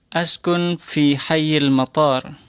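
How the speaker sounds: slow, careful model sentence for repeating; slow model phrase. Shown as a demonstration. Teacher modelling a sentence slowly for students to repeat. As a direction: say it slowly for the class to copy. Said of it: "nanti ulangi setelah saya".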